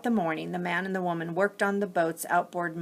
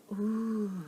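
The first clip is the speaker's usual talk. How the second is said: awed whisper; 3 semitones higher, 7 dB quieter than usual. A narrator's reading. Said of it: "they whispered".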